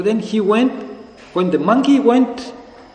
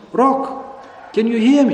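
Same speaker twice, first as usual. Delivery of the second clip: higher-pitched call, only mildly projected; raised, questioning call; mock calling out; 4 semitones higher, much slower than usual. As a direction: call out in a storyteller's light mock shout. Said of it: "And again he sounds".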